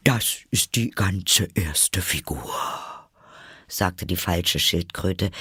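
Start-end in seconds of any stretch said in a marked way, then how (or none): 0.0-2.5 put-on turtle voice deflating; suddenly subdued. Mock Turtle winding down after the frenzy, suddenly subdued. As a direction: let the excitement drain out at once. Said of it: "indem ihre Stimme plötzlich leise wurde".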